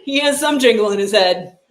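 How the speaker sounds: talking through a high laugh. Real, not acted. Streamer cracking up at own joke, laughing. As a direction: giggle the line out.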